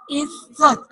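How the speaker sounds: इज्जत with the ज्ज held and pressed; इज्जत, ज said twice with weight; stress on doubled j. Shown as a demonstration. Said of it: "जे को जोर दे के पढ़ा".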